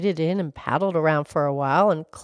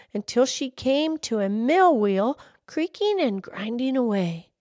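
lilting folk-tale narration, pitch often lifted; animated story narration; storytelling; 8 semitones higher than usual. A narrator's reading. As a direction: read it like a bedtime tale with swooping emphasis. Reads folk tale to audience.

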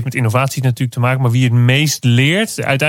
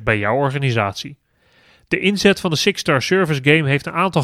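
upbeat radio ad voice; ad read; 3 dB quieter than usual. Acted. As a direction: read it like a sponsor spot. Reads a sponsor ad.

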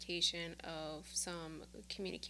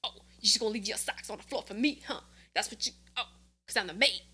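sarcastic; 4 dB louder, much faster than usual. Pretend. Imagined inner dialogue argument.

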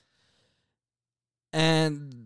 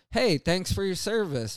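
quick higher-pitched mock of automatic thanks; reflexive thanks; 5 semitones higher than usual. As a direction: toss it off like an automatic pleasantry. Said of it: "people do it reflexively".

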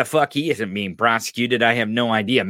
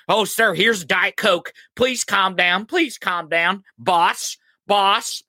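higher, pleading placating servant voice; mock aide soothing a tantrum, then exasperated; mock nervous aide; 7 semitones higher than usual. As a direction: coax him like a frightened butler. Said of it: "Walt Dean has to bring".

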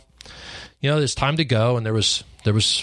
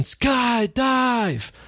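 high, long excited scream of the word; screaming skydive; 13 semitones higher than usual. Retold or imitated. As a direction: yell it out pumped and scared. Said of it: "and I'm screaming".

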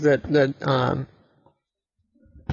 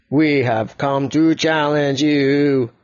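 robot voice; slower than usual. Acted. Yellow robot speaks.

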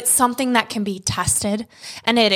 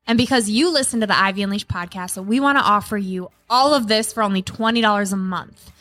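ad read. Acted. Ad read over music.

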